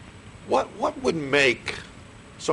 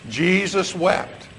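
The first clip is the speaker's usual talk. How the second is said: slow recitation; 3 semitones higher, much slower than usual. Shown as a demonstration. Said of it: "Say it with me. Ready?".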